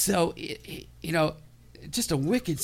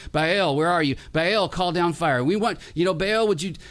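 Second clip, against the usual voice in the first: louder, pleading cry to an absent god; frantic calling to Baal; 3 semitones higher, 4 dB louder than usual. Acted. Prophets of Baal calling out to their silent god, loud and pleading. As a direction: beg Baal to answer, raising the voice.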